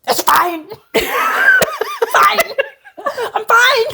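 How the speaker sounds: high-pitched mock-tearful insistence; hammed-up weepy protest, voice shooting up; imitated crying. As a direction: squeal it out as if crying, half laughing. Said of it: "She's just, like, crying".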